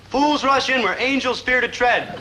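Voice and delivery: mock solemn proverb. Friend warns Dobie off his date in a slow, grand mock-solemn voice. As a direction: intone it with grand mock gravity.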